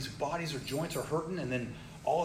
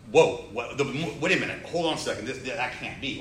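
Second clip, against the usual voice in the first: mildly stunned protest, loud on the first word; disbelieving, asking them to hold on; retold disbelief; 7 dB louder than usual. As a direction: stammer out a retold objection. Retelling man's shock at diagnosis.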